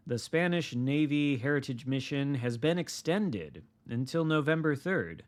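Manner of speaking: upbeat announcer read; news read. Acted. Reading patch notes aloud.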